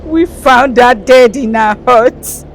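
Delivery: loud, high tearful cry; anguished crying voice; wailing grief. Acted. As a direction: wail the news out loud. Weeping mother repeats the death.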